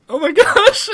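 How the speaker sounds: high, loud oh my gosh; stunned by the twist; amazed gasp. Real, not acted. Reacting to plot twist laughing.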